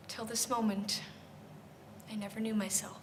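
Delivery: very soft and low, sinking towards a whisper; hushed realization. Acted. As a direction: let the truth land almost under your breath. Quiet realization ends the monologue.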